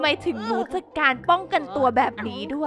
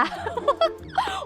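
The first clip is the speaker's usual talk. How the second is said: high squealing laugh; 3 dB quieter than usual. Real, not acted. Streamer squealing with laughter at her pee gag. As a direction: squeal of laughter, pitched far up.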